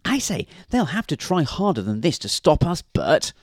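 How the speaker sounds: high, cocky seagull voice; comic bird, pitched well up. A narrator's reading. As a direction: jeer like a confident gull. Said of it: "said the seagull".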